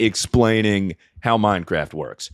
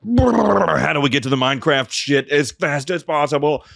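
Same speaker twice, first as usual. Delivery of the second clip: coked-up writers; 4 semitones higher than usual. Retold or imitated. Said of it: "writers railed lines of cocaine".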